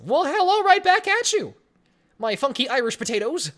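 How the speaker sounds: loud high cheery hello, then easing down; excited greeting. Real, not acted. Streamer greets an Irish fan in chat, loud and cheery. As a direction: belt the hello out, then settle.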